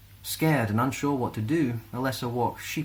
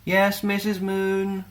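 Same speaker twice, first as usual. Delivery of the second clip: put-on high, slow sing-song children's chorus; class reply in chorus; 11 semitones higher, 4 dB louder, much slower than usual. A narrator's reading. Class answering their teacher in reluctant unison. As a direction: drawl it like bored pupils. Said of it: "replied the class".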